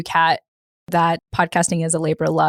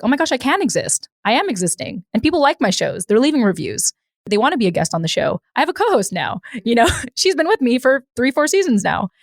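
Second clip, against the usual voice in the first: higher, bubbly disbelief; thrilled she can finally exist; excited inner voice; 6 semitones higher than usual. Retold or imitated. Retelling her own excited thoughts.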